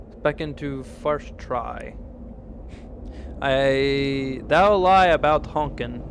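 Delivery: lightly voiced solemn talking tree; archaic tree voice. Streamer voicing a tree accusing the woodcutter, solemn. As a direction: speak like an old-fashioned forest spirit, grave.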